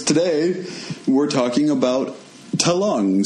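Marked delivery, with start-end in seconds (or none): 2.6-3.2 talungs in a Caribbean accent, one run-on word. Shown as a demonstration. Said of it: "That's a Caribbean way of saying the lungs".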